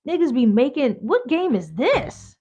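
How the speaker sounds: mock bewildered thought; baffled kid. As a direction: sound completely lost as a kid. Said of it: "thinking in my head".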